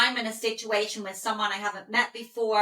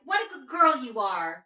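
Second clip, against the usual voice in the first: higher, quick gushing praise; excitable praise; 4 semitones higher than usual. Retold or imitated. Owner praising her dog, mildly over-excited and gushing. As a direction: gush over the dog a bit too eagerly. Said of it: "not like".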